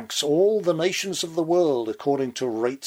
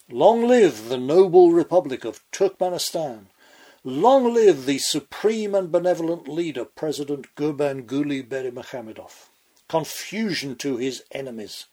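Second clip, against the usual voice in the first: north korean newsreader. Pretend. Mock state propaganda proclamation.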